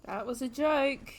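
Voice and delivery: slow, stretched-out JOKE; drawn-out reaction. Real, not acted. Viewer reacting to the film's joke, drawn out. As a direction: draw out JOKE slowly.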